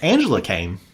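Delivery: said through a laugh; joking about the unanswered email, laughing; laughing punchline. Real, not acted. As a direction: chuckle the punchline out. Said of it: "punchline repeated".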